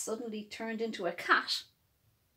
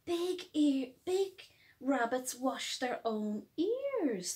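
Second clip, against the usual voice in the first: Hopscotch thinking. Acted. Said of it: "thought Hopscotch".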